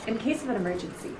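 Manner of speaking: stiff robot-y safety announcement; robotic flight attendant. Acted. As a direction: read it like a wooden non-actor. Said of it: "they're all robot-y".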